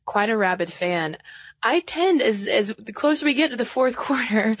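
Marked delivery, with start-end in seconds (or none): 1.6-4.5 Southern accent. Shown as a demonstration. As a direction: let a Southern accent creep in. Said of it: "my Southern accent comes, comes out of the closet".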